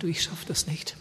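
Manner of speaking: hushed begging confession; husband whispering to his wife he can't; whispered plea. Retold or imitated. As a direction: breathe it as a whispered apology. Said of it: "richtig angefleht".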